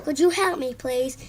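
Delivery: sweetly. Acted. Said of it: "said Henry sweetly".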